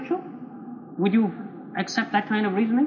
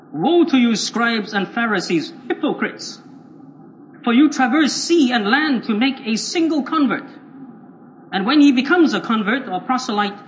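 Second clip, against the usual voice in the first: louder, emphatic Bible reading; thundering scripture denunciation; 4 dB louder than usual. Acted. Preacher reads the Lord's woe to scribes and Pharisees, stern denunciation. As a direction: pronounce the woe with force.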